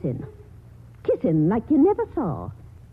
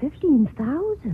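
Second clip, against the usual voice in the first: greedy astonishment; 4 semitones higher than usual. Acted. Aunt hears of the money.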